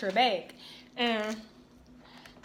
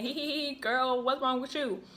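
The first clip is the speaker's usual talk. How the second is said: mock giggle; 4 semitones higher than usual.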